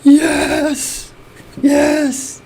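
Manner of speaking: high-pitched yeses of triumph; exultant cheer. Real, not acted. Fan celebrating Brazil's Oscar, exultant. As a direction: savour each yes, high and elated.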